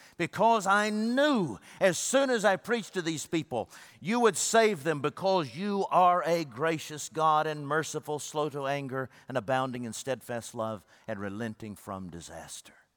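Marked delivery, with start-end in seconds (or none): none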